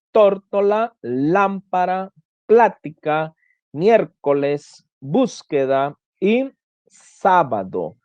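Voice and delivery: tórtola, lámpara, plática, slowly, each hit on the first syllable; slow word list, tórtola to sábado, third-last syllable stressed; stress on antepenultimate syllable. Shown as a demonstration. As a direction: draw out the opening syllable of miércoles, búsqueda, sábado. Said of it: "la antepenúltima sílaba".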